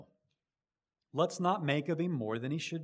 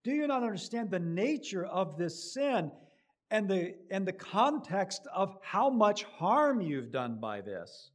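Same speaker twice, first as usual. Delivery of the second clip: pressing, accusing question; indignant rebuke; 8 semitones higher, 5 dB louder than usual. Acted. King confronting Abraham, accusing. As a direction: demand he grasp the harm. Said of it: "This is what Abimelech is saying to him".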